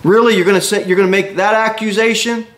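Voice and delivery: how dare you accuse me; offended Obadiah. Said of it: "what Obadiah is saying to Elijah".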